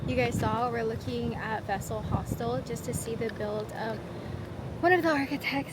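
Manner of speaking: breathless after the climb; talking while catching breath. Real, not acted. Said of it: "Sorry, I'm out of breath".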